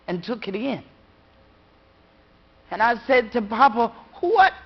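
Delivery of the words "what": put-on startled child. Child asking father.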